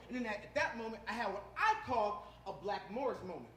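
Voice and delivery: normal talking voice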